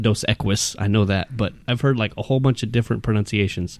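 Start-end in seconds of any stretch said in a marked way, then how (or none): 0.0-0.8 "Equis" said EK-wiss, with a w; wrong pronunciation. Shown as a demonstration. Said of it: "Of course, it's not".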